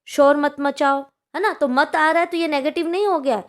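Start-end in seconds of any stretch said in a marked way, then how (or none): 0.1-1.0 put-on loud, firm order to a child; commanding. Shown as a demonstration. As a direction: bark the order like a strict teacher. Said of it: "आज्ञा दे रहे हैं". (ज़ोर से आदेश देते हुए)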